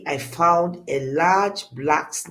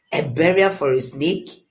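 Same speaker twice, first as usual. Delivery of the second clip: scoffing; 5 dB louder than usual. Acted. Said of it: "he scoffed".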